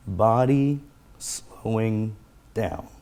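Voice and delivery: slow, drawn-out soothing words; warm tone. Shown as a demonstration. Speaker calming themself on the in-breath, warm tone. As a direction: stretch it out warmly, like calming yourself. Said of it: "in a warm tone of voice".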